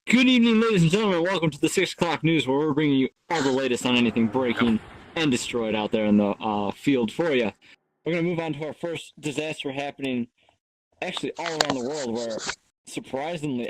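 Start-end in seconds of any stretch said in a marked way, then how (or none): 0.1-9.7 mock six o'clock news opening; news anchor. Anchor welcoming viewers to the six o'clock news, announcer-like. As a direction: open the bulletin with anchor showmanship.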